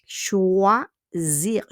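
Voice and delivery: "Choisir" in two slow parts, the S a clear Z. Shown as a demonstration. Teacher repeats the verb for the class, S as Z. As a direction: sound out "Choisir", voicing its S as Z. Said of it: "le S will be pronounced as Z".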